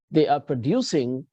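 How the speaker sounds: "producing" said pro-DU-cing; stress on second syllable. Shown as a demonstration. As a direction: lean on the middle of producing. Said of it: "accent on the second syllable".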